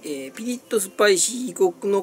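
slow, grand storybook read; dramatic label reading. Shown as a demonstration. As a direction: read it like an epic quest. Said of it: "って書いてあるんだけど".

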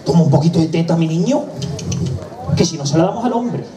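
mildly nervous coaxing, pitch lifting late; nervous mother. Acted. Mother coaxing her crying baby on the bus, mildly nervous. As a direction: coax with a touch of nerves, breaking before the threat. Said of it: "nerviosa, ya un poquito más nerviosa".

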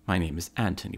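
name said in a put-on posh British English accent; fake British accent. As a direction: introduce yourself like a refined Englishman. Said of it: "his phony accent".

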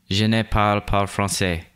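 "Je ne parle pas français" with a clumsy American French accent; an English speaker's badly attempted French accent; terrible French accent. Shown as a demonstration. Recording the French voiceover for the tutorial, clumsy French accent. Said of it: "terrible, terrible French accent".

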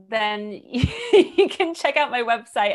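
giggling while plugging her website; laughing. Real, not acted. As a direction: laugh through the words, slowly. Laughs through plugging her site.

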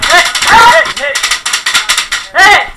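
very loud high shout; hit call. Real, not acted. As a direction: bellow it so everyone hears. Calling himself out when hit.

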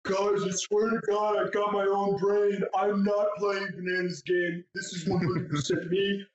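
Kyle impression. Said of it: "Hear an example?".

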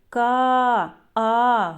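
Ка then а, each sound pulled apart and held; sounding out a syllable. Shown as a demonstration. Teacher splits the word for first graders, sound by sound. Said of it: "голосний, позначаємо кружечком".

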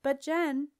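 loud, high protest. A narrator's reading. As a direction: protest over the noise. Protest in yelled argument.

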